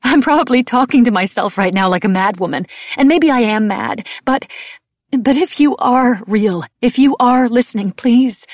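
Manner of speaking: high, loud, tearful begging; distraught prayer, breaking off into a small high please; desperate plea. A narrator's reading. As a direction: plead with someone who may not be listening.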